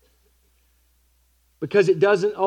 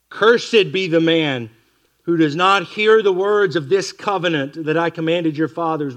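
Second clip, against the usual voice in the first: slow, louder proclaiming of the curse; solemn scripture reading; 5 dB louder than usual. Acted. Preacher reading the curse to his congregation, slow and louder. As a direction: read the curse out like a pronouncement.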